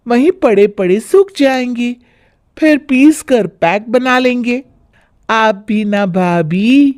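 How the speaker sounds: put-on carefree girl. Sonam brushing off her bhabhi, laid-back. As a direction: shrug it all off lazily. Carefree sister-in-law answers.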